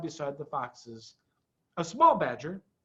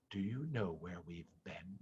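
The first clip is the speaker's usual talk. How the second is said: much lower and much softer, secretive; dark whisper; 11 semitones lower, 16 dB quieter than usual. A narrator's reading. Mister Fox to Badger face to face, dark whisper. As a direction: lean close and confide. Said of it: "whispered darkly".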